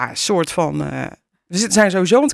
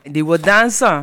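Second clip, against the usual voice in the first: slow put-on Tukker accent; imitated Tukker voice; 3 semitones lower, slower than usual. Co-host mocking a TV contestant to colleague, Tukker accent. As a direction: mimic a Tukker's little voice, drawn out. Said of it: "dat stemmetje nadoen".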